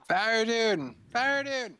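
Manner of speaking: calling out loud and high; booming female voice. Acted. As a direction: boom the name across the tent. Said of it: "It's a booming female voice".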